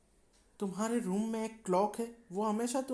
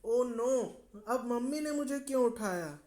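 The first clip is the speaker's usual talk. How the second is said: higher, whiny complaint; grumbling girl; 4 semitones higher, 4 dB louder than usual. Acted. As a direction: whine like a sleepy child. Girl grumbles at being woken.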